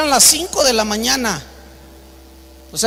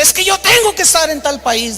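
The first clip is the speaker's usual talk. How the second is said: higher-pitched, mock-indignant insisting; acted insistence; 5 semitones higher than usual. Preacher insisting to airline clerk he must fly, acted indignation. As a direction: play a passenger who won't take no. Irate passenger insists at desk.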